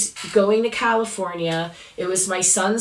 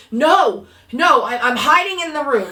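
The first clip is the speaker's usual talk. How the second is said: frightened hiding son; 5 semitones higher, 4 dB louder than usual. Retold or imitated. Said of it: "He said".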